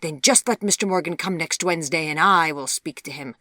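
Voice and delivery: high, very loud outburst, easing to firm decree; explode, then lay down the law; outraged. A narrator's reading. Mother exploding at her defiant young daughter, outraged.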